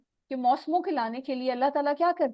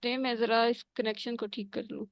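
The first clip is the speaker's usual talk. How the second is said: bad connection; 3 dB louder than usual. Real, not acted. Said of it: "بہت زیادہ آواز کٹ رہی ہے".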